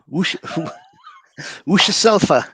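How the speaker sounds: "وش السالفة" tried quickly with "وش" as wush; a laughing first go at the Saudi phrase; in Arabic: محاولة أولى مترددة; learner's first try. Shown as a demonstration. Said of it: "وش, what?".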